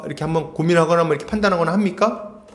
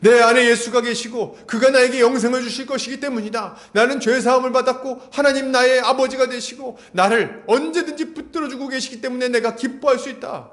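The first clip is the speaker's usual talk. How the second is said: higher-pitched, assured declaration of faith; mildly emphatic, confident witness; confident testimony; 4 semitones higher than usual. Acted. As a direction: proclaim it boldly to someone who asked. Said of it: "아주 당당하게 얘기를 할 수 있어야".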